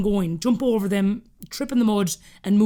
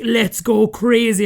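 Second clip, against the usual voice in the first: put-on louder, drawn-out kids' cheer; excited kids; 2 semitones higher, 5 dB louder, much slower than usual. Nieces and nephews greeting favourite aunt, excited. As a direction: whoop it slowly like excited children.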